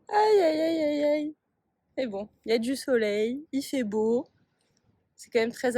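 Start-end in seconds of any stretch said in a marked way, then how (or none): 0.0-1.3 laughing dismay. Real, not acted. Laughs at her lost situation.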